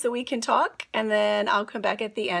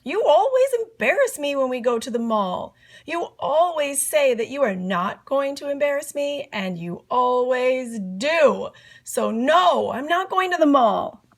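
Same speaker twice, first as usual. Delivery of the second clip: put-on higher, quick complaining kid voice; whiny boy; 3 semitones higher than usual. Andrew protests to his mom, whiny and higher. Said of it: "said Andrew".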